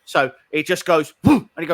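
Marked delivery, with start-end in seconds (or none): 1.2-1.5 sudden mouth-made whoosh; quick "whoom" of sudden movement; whooshing sound effect. Retold or imitated. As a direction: imitate a machine lurching into motion. Imitates the printer's sudden move.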